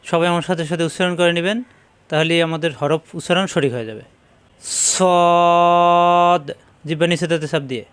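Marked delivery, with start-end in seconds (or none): 4.9-6.4 সদ said heavy and emphatic, loud and held; heavy Arabic letter. Shown as a demonstration. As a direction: hold সদ full and heavy from the back of the mouth. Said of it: "মোটা বা ইস্তিলার হরফ সাতটি".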